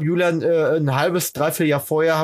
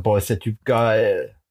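put-on quoted gushing girl; 6 semitones lower, slower than usual. Julia's quoted gushing remark.

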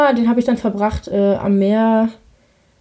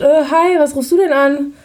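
imitating him caught off guard; surprised; 3 semitones higher than usual. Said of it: "er so voll überrascht". (überrascht nachgemacht, höher und lauter)

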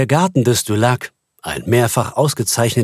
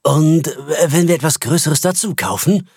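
a bit louder; 5 semitones higher than usual. Acted. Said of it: "sagte Stalder nun ein wenig lauter".

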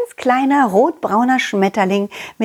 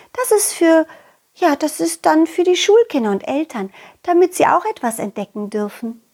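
put-on butterfly girl; 6 semitones higher than usual.

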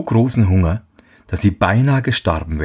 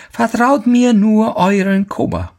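put-on old woman voice; 14 semitones higher than usual.

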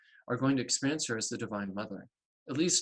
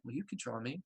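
much softer, hushed voice in her ear; little whisper; 10 dB quieter than usual. Retold or imitated. The goddess nudging her to draw, a soft hushed whisper. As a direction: murmur it like a goddess close to the ear. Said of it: "this little tickle in my ear".

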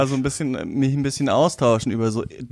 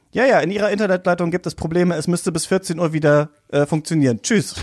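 robot voice; 3 semitones higher than usual. Retold or imitated. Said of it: "hat der Roboter gesagt".

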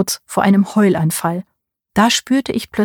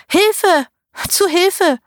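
much higher, calling for help; thin cry for help; 12 semitones higher, much slower than usual. A narrator's reading. Old aunt calls for help from the beach chair, thin high cry. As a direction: cry out thinly from below. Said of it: "tönte ein dünnes Rufen".

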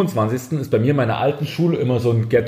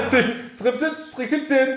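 laughing; 9 semitones higher, slower than usual. Real, not acted. Laughing joke line.

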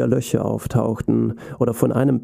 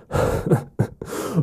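monster laugh; 6 semitones higher, 3 dB quieter than usual. A narrator's reading. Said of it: "Das Sockenmonster begann zu lachen".

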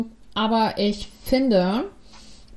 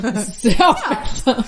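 slow ironic thanks through a laugh; mock-grateful, laughing; sarcastic laughing thanks; 4 dB louder, slower than usual. Real, not acted.

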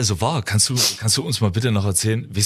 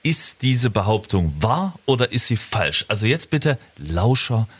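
game show host; slower than usual. Acted. Hosts the quiz game segment.

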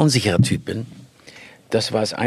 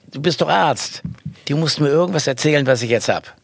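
put-on pleading child; 5 semitones higher than usual. Child pleading with doctor father.

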